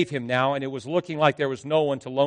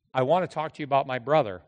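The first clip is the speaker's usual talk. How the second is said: annoyed; faster than usual. Retold or imitated. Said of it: "in the same annoyed tone".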